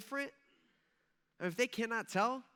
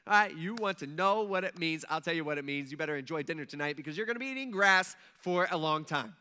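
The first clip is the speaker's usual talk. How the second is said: louder, smug mock taunting; smug gloat; 4 dB louder than usual. Imagined Daniel taunting the king, loud smug gloating. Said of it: "you're like".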